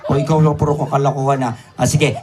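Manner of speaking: ordinary delivery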